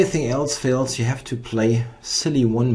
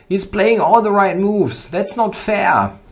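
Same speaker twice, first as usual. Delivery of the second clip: loud, high exasperated protest; excited outcry; 6 semitones higher, 7 dB louder than usual. Real, not acted. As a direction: cry out at the board in disbelief. Opponent plays strong moves, outcry.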